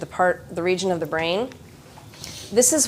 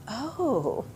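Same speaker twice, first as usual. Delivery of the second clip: inner calm voice; 6 dB quieter than usual. Retold or imitated. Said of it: "I can just say in my head".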